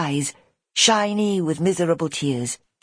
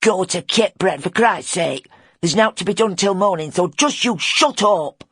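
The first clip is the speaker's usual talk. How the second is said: a hint of a gruff lad, a bit louder; older boy snapping at the little one; Simon, curt; 3 semitones higher, 4 dB louder than usual. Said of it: "cut through the youngster's whimpers".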